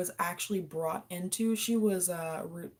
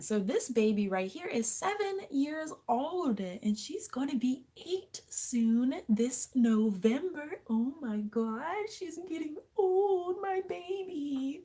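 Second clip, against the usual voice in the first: high, slow cooing to her pet; 8 semitones higher, slower than usual. Real, not acted. Cooing over her pet lizard.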